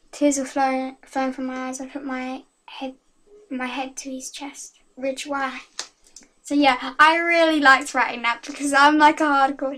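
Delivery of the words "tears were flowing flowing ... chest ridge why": reading her fan story aloud. Acted. Girl reading her story to viewers, storytelling voice. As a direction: read it like a dramatic tale.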